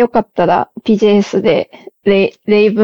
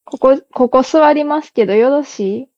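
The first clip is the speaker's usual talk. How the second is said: refined Kyoto-style speech; 3 semitones higher than usual. Shown as a demonstration. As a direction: ask politely in Kyoto-style accent. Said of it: "なんか上品な感じある".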